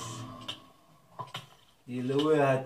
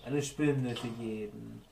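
bored slow catchphrase; 3 semitones lower, 5 dB quieter, slower than usual. Retold or imitated. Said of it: "Der Spruch lame hat".

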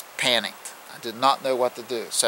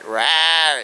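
imitated growl; 3 semitones higher, 4 dB louder than usual. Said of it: "It never moved".

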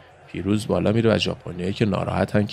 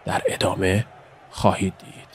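normal talking voice

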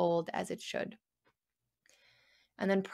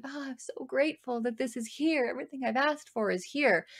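mock gratitude; 6 semitones higher than usual. Acted grateful mom thought.

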